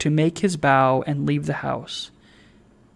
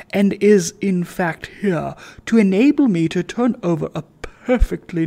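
pompous gentleman; 2 semitones higher than usual. Acted. Sir Joseph lectures Trotty.

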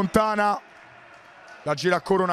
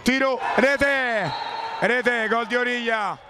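excited goal call; 4 semitones higher, much slower than usual. Real, not acted. Goal scored in live match.

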